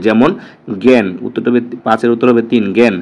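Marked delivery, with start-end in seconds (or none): 0.8-1.1 জ্ঞান said as "gen", with আ sounding like এ; open e-like vowel. Shown as a demonstration. Teacher giving students an example of আ said like এ, জ্ঞান pronounced "gen". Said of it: "আ কখনো এ এর মতো উচ্চারিত হয়". 2.8-2.9 জ্ঞান said as "gen", with আ sounding like এ; open e-like vowel. Shown as a demonstration. Teacher giving students an example of আ said like এ, জ্ঞান pronounced "gen". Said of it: "আ কখনো এ এর মতো উচ্চারিত হয়".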